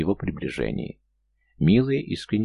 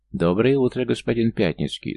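put-on breathless boy blurting it out; out of breath from running, blurt the greeting; urgent panting report; 4 semitones higher than usual. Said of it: "задыхаясь от бега, выпалил мальчишка". (запыхавшись, выпалил на бегу)

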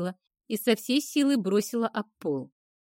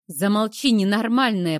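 rasping, louder angry order; hoarse angry rasp; 5 dB louder than usual. Acted. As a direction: croak out a furious command. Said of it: "прохрипела Йена".

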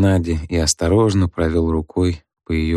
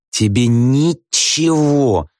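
"ничего" drawn out slow and high; bitter emphasis, slow on "ничего"; stress on ничего; 7 semitones higher, 3 dB louder, much slower than usual. A narrator's reading. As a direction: lean hard on "ничего". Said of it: "с чувством выделила слово".

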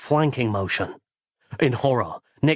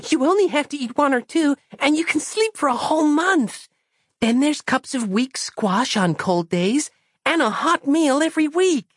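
put-on high, childlike, earnest voice; a naive small girl explaining; high child's voice, trusting and matter-of-fact; innocent little girl. Christabel's voice held.

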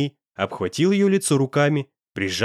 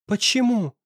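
put-on high, stunned girl's question; lightly voiced shock; a hint of a stranger's voice; 10 semitones higher than usual. A narrator's reading. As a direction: shaken girl asking why. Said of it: "не узнавая свой собственный голос".

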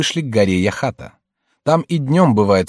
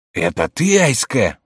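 mildly astonished recognition; surprised exclamation; 2 semitones higher, slower than usual. Acted. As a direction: exclaim it, rising on the name. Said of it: "воскликнул он". (удивлённое восклицание)

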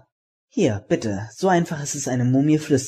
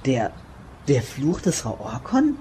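langsam, fragend ansteigend; ungläubige Nachfrage; slower than usual. Acted. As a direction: staunend nachfragen. (Junge fragt ungläubig nach dem Fluch: langsam, fragend)

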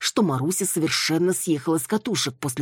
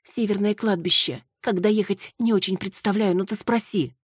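higher, hurried woman's voice; Маруся rattling off; 6 semitones higher than usual. Acted. Маруся gabbling the address to Руслан, higher. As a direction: blurt it all out at once. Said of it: "Маруся затараторила".

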